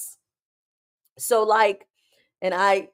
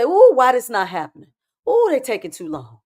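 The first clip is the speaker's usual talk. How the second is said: mock impatience; 4 dB louder than usual. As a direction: grumble like someone who can't wait, lightly hammed-up. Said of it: "how y'all get when y'all impatient".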